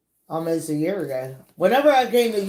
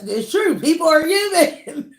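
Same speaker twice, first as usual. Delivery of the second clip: higher, louder affirmation; raised, punchy declaration; emphatic insistence; 9 semitones higher, 4 dB louder than usual. Real, not acted. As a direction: insist on it, voice lifting high. Correcting herself emphatically, then laughs.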